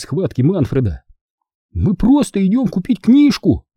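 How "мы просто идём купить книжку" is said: put-on boy interjecting. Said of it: "вставил Бенджамин".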